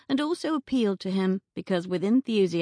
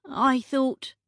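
higher, startled and interrupted; startled young woman, cut off; 7 semitones higher than usual. Acted. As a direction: break off in surprise. Beatrice cut off.

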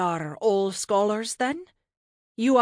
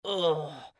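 disappointed groan. A narrator's reading. Godson seeing the same useless image, groaning. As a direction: groan of dismay. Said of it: "Leif groaned like he was watching".

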